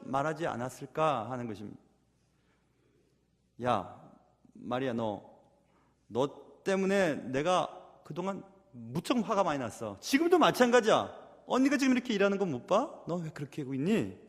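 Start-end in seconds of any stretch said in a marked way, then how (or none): 3.6-10.0 low, quiet scolding with pauses; understated acted anger; restrained anger. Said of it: "솔직하게 화가 났다고". 10.0-14.1 acted big-sister telling-off, pitched up then dropping; indignant, then lowering reproach; mildly angry scolding. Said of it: "솔직하게 화가 났다고".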